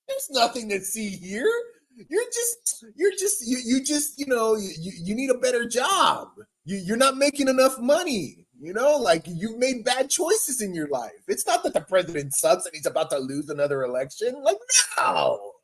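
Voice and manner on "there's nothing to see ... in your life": mock spokeswoman. Mock press secretary lecturing voters.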